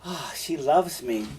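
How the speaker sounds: drawn-out, mildly swooning sigh of delight; mock lovestruck self-delusion. Teacher mimics someone fooled by a prostitute, mildly mock-lovestruck. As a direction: sigh it slowly, as if fooling yourself. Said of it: "you could fool yourself and say".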